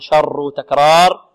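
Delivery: شر with the R repeatedly rolled; trilled R. Shown as a demonstration. Teacher showing repetition of the R in شر, rolled. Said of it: "تتكرر، نقول".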